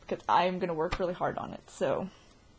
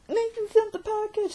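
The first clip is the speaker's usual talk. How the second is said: much higher, louder mock reading; high singsong read-out; 13 semitones higher, 7 dB louder than usual. Vlogger reading the calendar note, high-pitched and playful. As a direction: chirp it out like a proud announcement.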